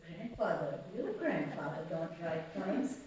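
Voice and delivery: mock-incredulous challenge, rising questioningly; retold disbelief. Doubting her daughter's claim that grandfather writes poems, mock-incredulous. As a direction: retell a doubtful grown-up questioning a child.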